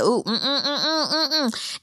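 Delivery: repeated disapproving mm-mm; exaggerated uh-oh hums; dismayed humming. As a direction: hum a string of no-no sounds. Recapping own dismayed reaction.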